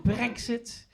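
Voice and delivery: mock pity. People pitying the comedian for being English, pitying. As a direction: say it with pity, after a long pause. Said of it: "look at me with pity and just go".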